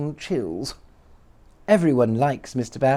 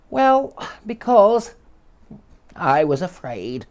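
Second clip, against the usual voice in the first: sobbing; 5 semitones higher, slower than usual. Acted. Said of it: "sobbed the little man".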